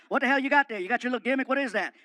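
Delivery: loud, barking tough-guy voice; gruff Stone Cold voice. Retold or imitated. Wrestler calls to Fluffy from his door, loud gruff bark. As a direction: play the brash wrestler calling out. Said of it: "he goes".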